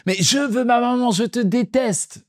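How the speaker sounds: put-on high, very slow whining child voice; imitating a wailing toddler. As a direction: drag it out like a sobbing three-year-old. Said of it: "il commence à hurler".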